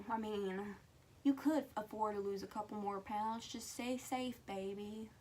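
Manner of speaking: light Cajun accent imitating grandma; grandma's Cajun accent. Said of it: "in her Cajun accent".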